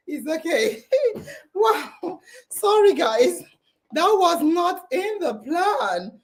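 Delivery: laughing through real tears, voice wobbling; half-crying, half-laughing over a surprise; teary laughing. Real, not acted. Host overcome by guests' surprise, laughing through tears. Host overwhelmed on live stream.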